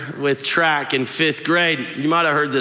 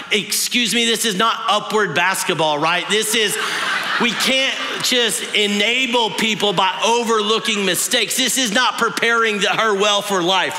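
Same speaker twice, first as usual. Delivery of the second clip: indignant rant; 6 semitones higher than usual. Retold or imitated. Kid protesting the redo to the teacher, indignant shout. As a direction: scold the teacher like a wronged champion. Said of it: "And I'm like".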